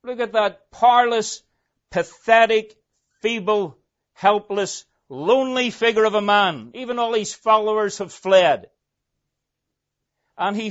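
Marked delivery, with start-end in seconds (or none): 0.0-8.7 higher, louder Pilate urging the crowd; pleading Pilate. Acted. Preacher voicing Pilate urging the crowd, higher and louder. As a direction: coax the mob to see how pathetic he looks. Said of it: "Pilate says".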